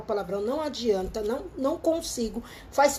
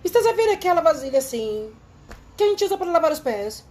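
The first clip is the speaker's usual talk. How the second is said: imitating the boss from Portugal; lightly put-on European Portuguese; Portuguese accent. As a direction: say it like a Lisbon boss. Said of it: "Ela falou".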